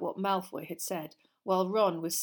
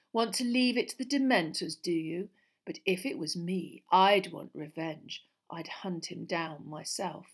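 sneering Malfoy. Acted. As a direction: goad him, slowing toward the end. Malfoy goads Harry.

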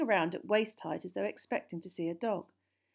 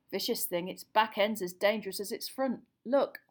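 lightly voiced hearty handler, a little raised; dragon keeper; 3 semitones higher, 5 dB louder than usual. Dragon keeper briefing Hagrid on the nesting mothers, lightly voiced and hearty. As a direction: warn about the task, voice projected. Voices Charlie explaining the task.

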